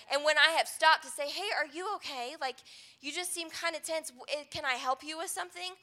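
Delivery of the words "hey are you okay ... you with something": soft, tentative offer of help; quiet, caring check-in; gentle concern. Retold or imitated. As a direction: ask softly, as if taking them aside. Retold gentle check on someone tense.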